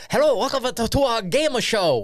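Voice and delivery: high, slow host-style greeting; mock game show host. Mocking the hosts who greet him as a game show host.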